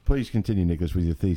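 polite mock-British host; playful British politeness; British accent. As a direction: prompt him in a put-on British accent. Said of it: "we can only use British accents".

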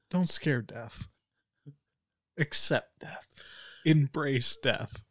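slow, solemn, half-whispered lines; dramatic slow intoning. Acted. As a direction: intone it like an edgy prophet. Dramatic speech to henchmen.

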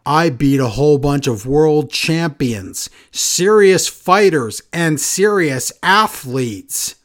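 slow, drawn-out mock tough-guy promo; lightly hammed-up slow wrestling promo voice; mock Damian Priest promo. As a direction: drag each word out like a self-serious wrestler. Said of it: "Damian cuts a promo saying".

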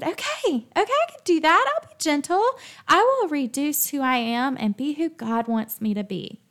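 mock her younger self cheerfully agreeing; naive eager agreement. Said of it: "And I said".

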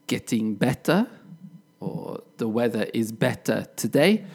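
"better" with a clear British T; British pronunciation. Shown as a demonstration. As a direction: keep the T in "better" and no strong R. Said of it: "I would say".

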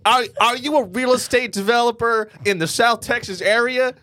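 high cheesy announcer pitch. Pretend. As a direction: pitch it like a local ad. Mock TV ad pitch.

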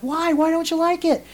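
high, pleading grandmother voice; retold grandmother. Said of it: "And she's like".

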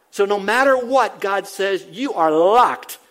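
loud climax, slowing onto the last word; forceful, drawn-out pulpit punch; emphatic preaching. Real, not acted. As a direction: drive it home and lock it down. Preacher drives home the climax.

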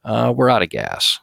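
a hint of an airline captain; pilot announcement. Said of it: "when the pilot comes on".

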